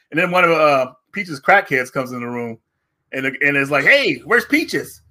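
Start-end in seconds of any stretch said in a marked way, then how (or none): 3.8-5.0 put-on high, slow crackhead calling out like a child; a strung-out guy crying for his friend; whiny little kid. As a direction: wail the name like a lost kid, pitched way up. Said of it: "let out a little kid".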